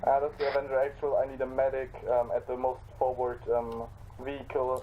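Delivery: loud urgent call for a medic; man down shout. Acted. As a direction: shout for a medic over comms. Calling for a medic.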